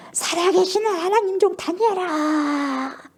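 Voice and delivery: high, slow tearful cry; king calling into the lions' den, weeping. Retold or imitated. King calling to Daniel at the den, sobbing cry. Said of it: "막 엉엉 울면서 슬퍼하면서 소리질러".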